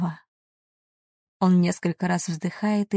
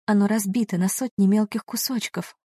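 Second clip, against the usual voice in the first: ordinary delivery, nothing marked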